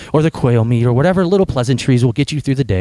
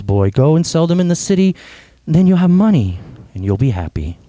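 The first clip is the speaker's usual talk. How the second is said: gentle storybook narration, voicing tree and boy; storyteller reading to a congregation; story reading. A narrator's reading. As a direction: read it like a children's book at a sermon. Reads The Giving Tree aloud.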